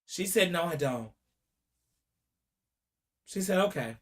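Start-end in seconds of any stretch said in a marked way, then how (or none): 0.5-1.1 much lower and softer, almost under the breath; soft answer. Retold or imitated. Mother answering the prosecutor, low and soft. 3.6-3.9 much lower and softer, almost under the breath; soft answer. Retold or imitated. Mother answering the prosecutor, low and soft.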